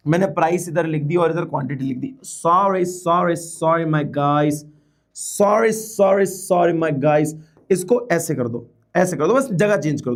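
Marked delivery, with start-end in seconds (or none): 2.2-4.5 playful apology. Real, not acted. Apologising for a board mistake. 5.2-7.3 playful apology. Real, not acted. Repeats apology for board mistake.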